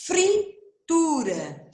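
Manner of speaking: Fritura bem lenta, o fr esticado; palavra silabada. Shown as a demonstration. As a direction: alongue cada sílaba de Fritura. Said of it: "olha como muda". (Fritura bem devagar)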